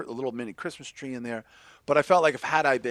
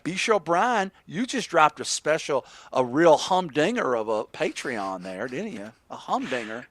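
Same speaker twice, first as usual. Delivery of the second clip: put-on southern host voice; southern accent; 2 semitones higher than usual. Host prompting co-host about his Patreon, southern accent. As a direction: tease him in a southern accent. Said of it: "That accent's infectious".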